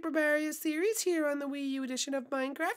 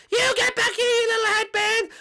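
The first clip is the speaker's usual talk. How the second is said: angry yell; 2 semitones higher, 4 dB louder than usual. Acted. Peach chasing a fleeing fan, furious yell. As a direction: yell after them in a rage.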